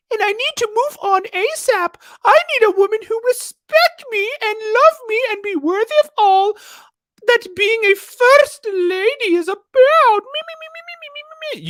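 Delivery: very high mocking falsetto; hammed-up high squeak, dissolving into babble; J P's stupid little voice. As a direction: read it as a squeaky little self-centred whiner. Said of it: "read this entire statement in his stupid little voice".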